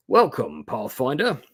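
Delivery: lightly hammed-up Huron accent; thick Huron accent. Stranger greets the Pathfinder, in a mock thick Huron accent. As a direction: attempt a made-up Huron accent. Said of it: "in his thick Huron accent".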